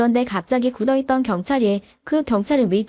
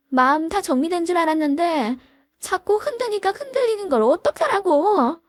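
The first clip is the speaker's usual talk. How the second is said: acted yelling friend; 3 semitones higher than usual. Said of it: "하면서 소리를 지르는데".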